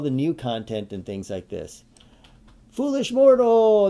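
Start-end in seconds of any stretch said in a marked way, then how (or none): 2.7-3.9 high, slow, theatrical villain cry; booming villain voice. Acted. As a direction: boom it out like a cartoon villain. Greets a viewer with a booming villain call.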